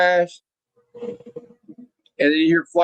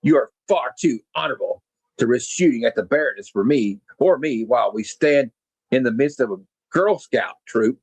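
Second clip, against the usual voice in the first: sneering villain; 4 semitones lower than usual. Retold or imitated. Cobra Commander mocks General Flagg as predictable, lower smug villain voice. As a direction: purr the insults like a bored mastermind.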